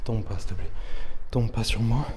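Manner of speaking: softly pleading, scared; scared horror game streamer. Real, not acted. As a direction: beg quietly, tense with fear. Afraid the slab will fall.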